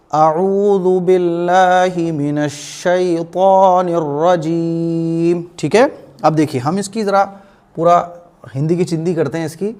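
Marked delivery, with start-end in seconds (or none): 0.1-5.4 very slow, measured tajweed chant; Quranic recitation. Shown as a demonstration. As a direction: draw out each long vowel, hold the final रजीम. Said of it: "इस तरह से आपको अऊज़ु बिल्लाह हमेशा पढ़ना है". (धीमी, खींची हुई तजवीद वाली तिलावत)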